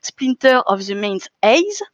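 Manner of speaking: slow, self-mocking English accent on the title; a jokey English accent to read out the English title. Shown as a demonstration. Speaker jokingly reads the English title in a mock English accent. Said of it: "avec mon super accent anglais".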